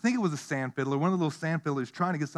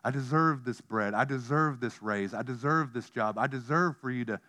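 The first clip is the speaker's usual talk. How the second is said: entitled attitude; 4 semitones lower, 3 dB quieter than usual. Retold or imitated. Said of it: "attitude of".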